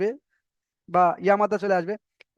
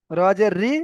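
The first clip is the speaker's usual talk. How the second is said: রজের রি with a short রি; no elongation on রি in রজের রি; short RI, no stretch; 4 dB louder, much slower than usual. Shown as a demonstration. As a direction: spell out রজের রি, cutting the last vowel short. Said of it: "এখানে আমি টান করবই না".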